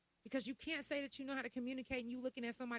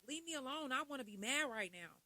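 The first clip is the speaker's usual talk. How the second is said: grumpy leave me alone; 5 semitones higher, 3 dB louder than usual. Retold or imitated. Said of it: "You like, like".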